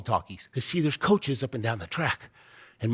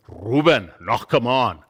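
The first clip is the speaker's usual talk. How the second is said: put-on stern coach with a heavy Austrian accent; Arnold Schwarzenegger; 5 semitones lower, slower than usual. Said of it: "sounds like Arnold Schwarzenegger".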